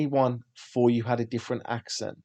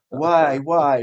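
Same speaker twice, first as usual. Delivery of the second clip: questioning taxi driver; 4 semitones higher, 9 dB louder than usual. Retold or imitated. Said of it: "He's like".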